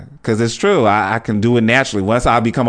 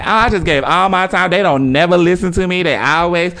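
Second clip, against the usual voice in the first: mock complainer; 5 semitones higher than usual. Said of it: "them people complaining".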